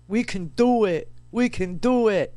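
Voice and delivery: lightly voiced tough woman; a hint of a wartime poster heroine; imagined Rosie the Riveter. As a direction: say it like a tough gal's slogan. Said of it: "Isn't how I imagine her to s-, to sound".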